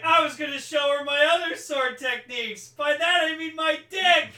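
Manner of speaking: high, loud hammed-up hero; mock dramatic line. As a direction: ham it up like an anime hero. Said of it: "just being like".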